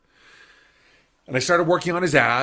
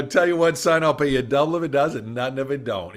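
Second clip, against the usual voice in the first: J R Ewing drawl. Retold or imitated. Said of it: "picture of J R Ewing".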